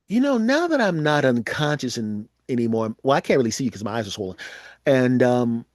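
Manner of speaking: talking through a wired jaw; jaw wired shut. Pretend. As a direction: mumble through clenched teeth. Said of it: "so it probably sounds like this".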